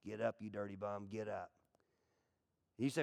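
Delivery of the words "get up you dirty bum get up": a hint of a trainer urging; low and soft, egging on a fighter; lightly voiced coach; gruff corner man. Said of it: "Mick being in the corner".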